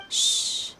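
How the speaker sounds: soft, unvoiced hush; quiet them so they can listen; hushing everyone to listen in; shushing. Real, not acted. Hushing friends to eavesdrop.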